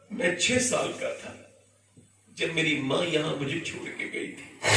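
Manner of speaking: soft, breathy near-whisper; hushed grief. Retold or imitated. Prophet to Umar at his mother's grave, hushed. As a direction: let the words fall to a hush.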